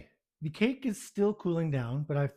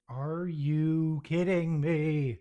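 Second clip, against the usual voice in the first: exasperated; 3 semitones higher, 4 dB louder, much slower than usual. Real, not acted. Icing on her foot.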